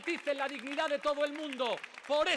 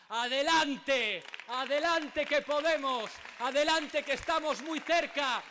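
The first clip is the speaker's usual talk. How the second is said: booming balcony speech. Real, not acted. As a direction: drive the crowd home with each adelante. Closing rally chant, building crowd cry.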